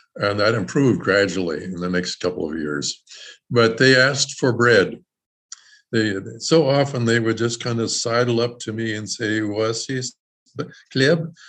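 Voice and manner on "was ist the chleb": usual speaking voice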